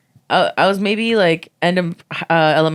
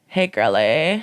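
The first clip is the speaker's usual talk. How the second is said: Mary; slower than usual. Retold or imitated. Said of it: "impression of Mary".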